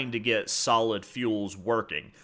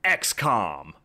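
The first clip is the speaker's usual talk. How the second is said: dramatic reveal; 3 semitones lower, 3 dB louder than usual. Real, not acted. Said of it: "are you ready for this?".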